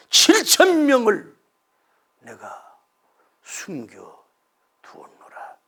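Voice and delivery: God's solemn revelation; dramatic reveal. A narrator's reading. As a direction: punch the number, then hush. God reveals hidden seven thousand.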